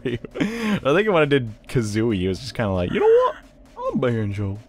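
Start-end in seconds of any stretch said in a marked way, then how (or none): 2.9-4.6 goofy Banjo. Retold or imitated. Gamer recalling Banjo from his Kazooie videos, goofy and cartoonish. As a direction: play Banjo as a silly goof.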